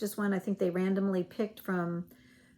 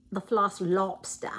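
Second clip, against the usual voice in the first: attempted Maine accent; slower than usual. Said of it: "I can't say it with the accent like they do".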